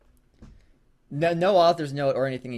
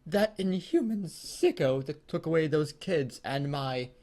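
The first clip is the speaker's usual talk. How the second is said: hammed-up grief; 12 semitones higher than usual. Betty asks the employee about the killer, high mock-tragic wail. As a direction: wail it like a soap-opera mother.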